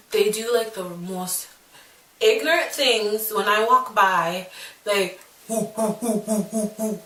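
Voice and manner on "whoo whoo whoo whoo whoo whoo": retold jeering whoo whoo hoots; half-hearted imitation of taunting hoots; mocking monkey hoots. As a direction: imitate the bullies' mock monkey hoots, lightly. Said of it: "make monkey sounds".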